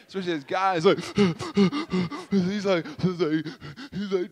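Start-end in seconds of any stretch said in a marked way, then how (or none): 1.0-2.3 imitated crying gasp. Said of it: "you don't cry like that".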